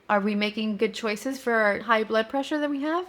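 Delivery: mildly condescending retold question. Wife questions husband about his barbecue lunch, mildly condescending. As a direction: talk down with feigned patience. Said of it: "very condescending".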